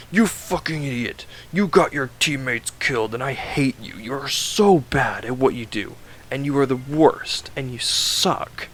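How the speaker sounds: mock-scold the student like a bully sensei; mock berating. Mentor tearing into his student, mock angry berating.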